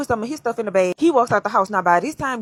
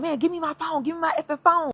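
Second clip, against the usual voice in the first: retold yell; 6 semitones higher than usual. Man demanding his phone from his girlfriend, mock yelling. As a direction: act out his demand in a raised pitch. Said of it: "So he start yelling".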